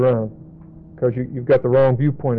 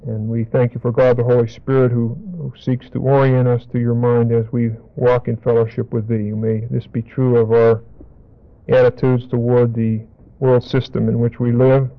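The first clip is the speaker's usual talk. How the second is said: prayer. Real, not acted. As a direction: pray gently and steadily. Closing prayer.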